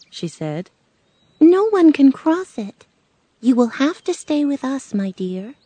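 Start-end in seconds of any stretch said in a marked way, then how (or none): 1.4-5.5 high storybook witch, dropping at the end; regretful Good Witch. Acted. Good Witch tells Dorothy she must stay, regretful. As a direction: break it to her gently but firmly.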